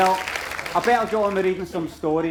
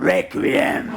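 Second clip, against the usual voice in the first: mock heckler shout. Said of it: "go like".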